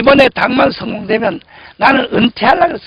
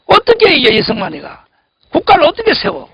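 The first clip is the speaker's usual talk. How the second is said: rhetorical outcry; 5 semitones higher than usual. Real, not acted. Rhetorical challenge to congregation.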